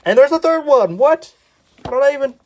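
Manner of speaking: loud, high disbelief at finding another one; shocked. Real, not acted. Vlogger finding a third comic, loud disbelief. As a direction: gasp it out, unable to believe it.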